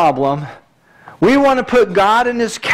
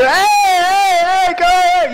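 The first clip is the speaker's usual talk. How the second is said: mock yelling; 10 semitones higher, much slower than usual. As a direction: bark it like someone shouting you down. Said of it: "somebody yelling at you".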